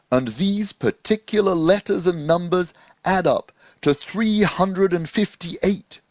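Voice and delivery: a hint of a jolly teaching rabbi; lightly voiced wise rabbi. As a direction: share a secret with a pupil.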